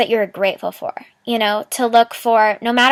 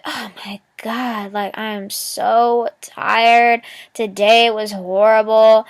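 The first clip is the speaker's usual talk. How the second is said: mock tired complaint; slower than usual. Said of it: "And she's like".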